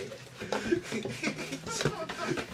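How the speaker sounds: high, breathy burst of laughter. Real, not acted. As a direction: crack up helplessly. Helpless laugh at story.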